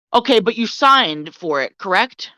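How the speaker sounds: measured, mildly condescending question; lightly condescending, pausing before the tag question; patronizing. Retold or imitated. Store worker corners the customer, mildly patronizing. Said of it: "stop fucking patronizing me".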